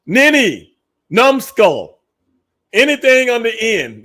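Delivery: high, slow goofy voice for nincompoop; slow silly voice for the fool; mock dumb guy voice. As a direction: ham up sounding like a fool. Mocking what he didn't sound like.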